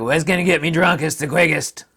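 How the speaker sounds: laughing put-on voice of a boozer; mock drunk asking. Vlogger imitates a drinker wanting the quickest buzz, laughing mock voice. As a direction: giggle through the greedy drinker's question. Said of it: "She's like".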